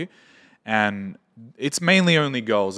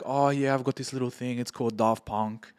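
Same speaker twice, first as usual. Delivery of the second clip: softer, offhand brag; casual, not caring; 5 dB quieter than usual. Retold or imitated. Imitating a band member, offhand and softer. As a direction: toss it off like it's nothing. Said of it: "he didn't give a shit".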